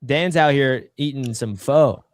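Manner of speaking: mouth full. Real, not acted. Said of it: "Bro's giving us a mukbang".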